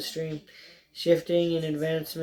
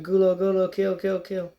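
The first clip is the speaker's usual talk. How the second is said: roaring; 2 semitones higher than usual. Acted.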